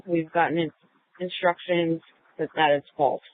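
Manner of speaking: radio call to dispatch; filtered handheld radio voice; police radio. Real, not acted. Unit radios control.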